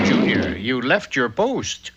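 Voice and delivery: scolding. Acted. Father scolds son for leaving.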